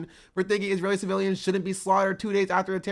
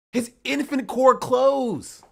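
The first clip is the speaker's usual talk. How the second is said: mocking shout; 4 semitones higher, 3 dB louder, slower than usual. Real, not acted. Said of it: "mocking shout".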